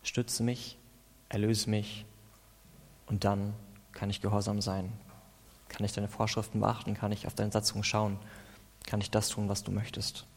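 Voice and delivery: hushed devotional reading. Acted. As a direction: murmur it as a personal prayer. Reads psalm as quiet prayer.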